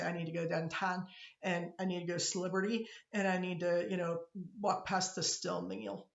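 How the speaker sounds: downtown and still meal in a soft Pittsburgh accent; light Pittsburgh vowels, steel as still meal. Shown as a demonstration. Teacher showing how Pittsburghers say it, Pittsburgh accent. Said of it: "We say".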